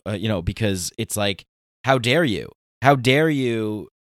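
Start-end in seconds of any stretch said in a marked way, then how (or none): 1.8-2.5 indignant. Retold or imitated. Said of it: "I blew a gasket and lost my mind". 2.8-3.9 how dare you, slow and louder, stretched out; slow indignant outrage. Retold or imitated. Telling off Patreon over the new fees, slow retold outrage. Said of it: "I blew a gasket and lost my mind".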